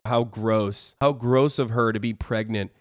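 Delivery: low, soft deadpan revulsion; understated mocking disgust. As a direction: parody a prudish complainer in a low, muted voice. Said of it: "That's what you sound like".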